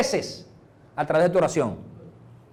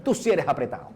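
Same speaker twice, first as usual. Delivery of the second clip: joking complaint; 2 semitones lower, 6 dB quieter, faster than usual. Retold or imitated. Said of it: "Josué decía".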